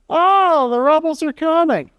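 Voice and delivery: high, hammed-up panic, Chicken Little style; mock alarm. Lecturer mocks a pastor's fear of rebels, hammed-up alarm. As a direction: cry it out like the sky is falling. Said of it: "Chicken Little".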